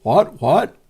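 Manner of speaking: hammed-up shocked protest; mock disbelief. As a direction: yelp it like a baffled believer. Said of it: "they're responding with".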